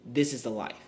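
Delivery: "the life" set down with measured emphasis; stress on THE LIFE. Shown as a demonstration. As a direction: place the weight on "the life". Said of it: "Emphasis on the life".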